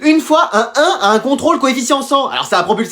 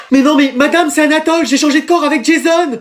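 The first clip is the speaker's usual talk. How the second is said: pleading protest; 5 semitones higher, 3 dB louder than usual. Acted. Pupil pleads he swapped bodies.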